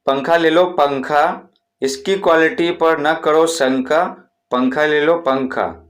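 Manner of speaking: slow, drawn-out rhyming hawker call, not truly shouted; vendor's rhyming cry. Shown as a demonstration. Teacher demos the fan seller's rhyme for students, sing-song call. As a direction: chant it like a street seller pushing his fans. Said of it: "इस तरह से एकदम चिल्लाते जाएंगे".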